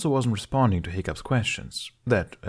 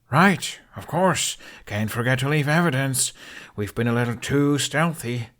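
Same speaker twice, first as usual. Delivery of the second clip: sarcastic; 4 semitones higher than usual. Acted. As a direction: roll your eyes at the dragon. Hiccup scolding the dragon.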